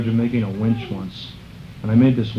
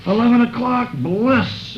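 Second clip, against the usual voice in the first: much higher, delighted cry; blissful exclamation; 12 semitones higher, slower than usual. Retold or imitated. Jayananda waking at eleven, crying out happily much higher. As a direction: pop up and cry it out in joy. Sleepy friend sits up, exclaims.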